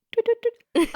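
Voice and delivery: very high chirped tweets; parakeet chatter. Pretend. Bird talk game.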